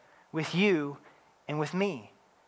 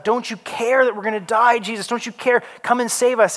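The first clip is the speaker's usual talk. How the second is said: panicked plea; 5 semitones higher than usual. Retold or imitated. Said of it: "they're freaking out".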